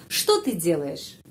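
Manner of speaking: что ты делаешь repeated slowly, что stressed; teacher repeat. Shown as a demonstration. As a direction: say the question again for learners. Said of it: "itu pertanyaan".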